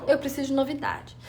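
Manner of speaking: "Eu preciso de novidade" repeated quietly to herself; soft echo. Shown as a demonstration. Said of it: "Porque eu preciso de novidade".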